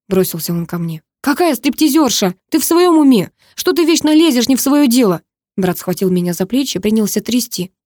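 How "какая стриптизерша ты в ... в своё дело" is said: high-pitched angry tirade; furious scolding. A narrator's reading. Enraged brother scolds meddling sister, high and angry. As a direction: berate them with raised pitch.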